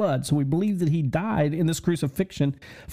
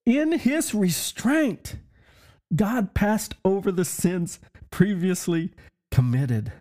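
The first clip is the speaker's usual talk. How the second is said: "In his restraint" lifted much higher and slow, then "God passed over the sins previously committed" said slowly in wonder; awed re-reading; 5 semitones higher than usual. Shown as a demonstration. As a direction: savour "In his restraint" up high and slow, like a revelation. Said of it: "Listen, it says".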